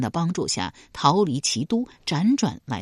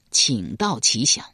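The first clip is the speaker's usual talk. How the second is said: low, slow, courteous request; 缓慢庄重地请教; lower slow king; 5 semitones lower than usual. Acted. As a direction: ask gravely. King asks.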